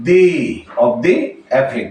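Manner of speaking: "the" pronounced dee before "afflict"; long ee vowel in "the". Shown as a demonstration. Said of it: "আমরা দি উচ্চারণ করব".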